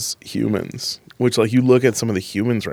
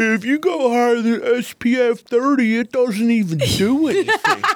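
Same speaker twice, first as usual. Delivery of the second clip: put-on dopey, dim-witted voice, pitched way up. Joking in conversation, in a put-on dumb person's voice. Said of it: "I don't know why I did that in a dumb person's voice".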